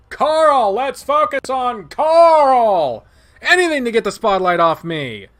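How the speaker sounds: high, loud, dragged-out yell; mock shout. Narrator wants to scream.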